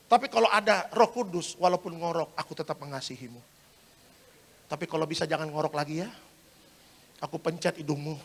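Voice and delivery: calm right down after the outburst; mock forgiving. Forgiving spouse after the acted quarrel.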